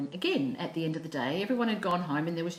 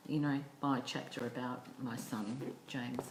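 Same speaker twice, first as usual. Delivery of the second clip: soft whisper, lower; whispered aside; 5 semitones lower, 6 dB quieter than usual. Retold or imitated. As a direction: hush it down to a whisper. Hushed retold request.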